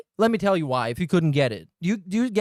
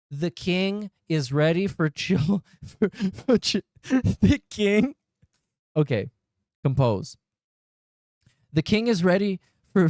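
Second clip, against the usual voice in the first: ordinary talk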